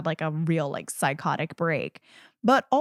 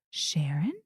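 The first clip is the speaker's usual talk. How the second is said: high, slow, screaming rage at his wife; furious yell; 6 dB louder, much slower than usual. Retold or imitated. Unhinged husband screaming at his fantasy wife, high and slow. S0 voices Peter yelling at wife.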